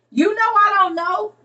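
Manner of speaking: "You know I don't know" pitched high and loud; high playful protest. Real, not acted. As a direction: squeal it out playfully.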